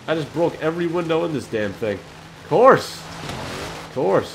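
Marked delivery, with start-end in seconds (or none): 2.4-3.0 loud exasperated outburst; exasperated shout. Real, not acted. Car crash, exasperated outburst. 3.0-4.4 resigned whisper under the breath. Real, not acted. Repeats it after the crash.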